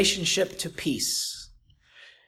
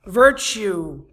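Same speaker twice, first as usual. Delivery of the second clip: a lightly raised, declaiming scripture reading; preaching scripture. Acted. Preacher reading scripture to the congregation, declaiming. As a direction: read the verses out to the congregation.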